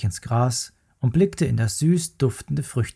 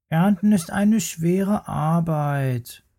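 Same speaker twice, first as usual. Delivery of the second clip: higher, slow, sulky cub whining about work; grumbling little bear; 5 semitones higher, slower than usual. Acted. Little bear complains to Mama about hard work, sulky. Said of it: "maulte der kleine Bär".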